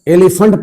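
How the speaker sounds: एलिफेंट ending in a weak 'funt'; correct pronunciation. Shown as a demonstration. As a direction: say एलिफेंट as 'eli-funt'. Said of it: "एलिफेंट पढ़ेंगे". (एलिफेंट को 'एलिफंट' बोलें)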